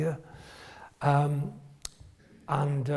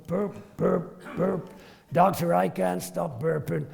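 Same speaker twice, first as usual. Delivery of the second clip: deadpan. Retold or imitated. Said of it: "he does everything deadpan".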